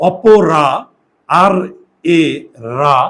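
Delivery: অপরা broken into separate beats, the আর sound pulled out; syllable by syllable. Shown as a demonstration. Teacher splitting a word for students, syllable by syllable. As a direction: split অপরা slowly to show the র sound inside. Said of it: "এখানে একটা র এর উচ্চারণ আছে".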